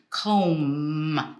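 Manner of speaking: COMB drawn out on a humming M; held final M. Shown as a demonstration. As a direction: stretch "comb" into a long voiced M. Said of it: "the last sound".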